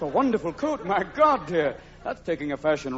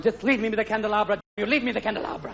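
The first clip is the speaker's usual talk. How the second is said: Liberace impression; 2 semitones higher than usual. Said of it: "feel like Liberace right now".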